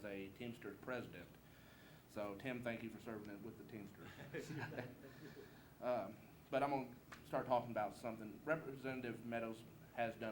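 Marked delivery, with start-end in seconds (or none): 4.6-5.8 soft chuckle; a quiet laugh after one's own quip. Real, not acted. Candidate teasing his opponent about Teamsters, soft chuckle.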